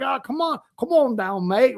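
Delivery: put-on South African accent. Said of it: "I can't even do his stupid accent".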